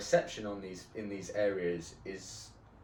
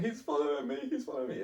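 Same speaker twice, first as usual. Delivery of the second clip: higher-pitched mock alarm; lightly acted alarm, voice pitched up; imitating frightened friend; 5 semitones higher, faster than usual. Retells friend's frightened phone call.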